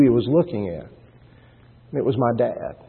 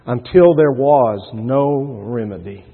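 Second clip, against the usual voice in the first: solemn; slower than usual. Real, not acted. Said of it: "some of the saddest words".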